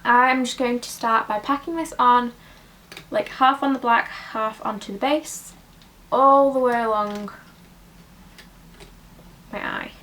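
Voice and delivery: breathless, puffing while talking; out of breath. Real, not acted. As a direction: still catching breath. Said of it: "I'm really out of breath".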